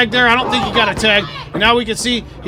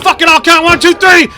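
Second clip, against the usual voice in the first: counting it out, pitch climbing and louder; mock referee count; 5 semitones higher, 5 dB louder than usual. Wrestler counting his own pin, rising excited mock count. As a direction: make the count yourself, gleeful. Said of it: "Billy McNeil's like".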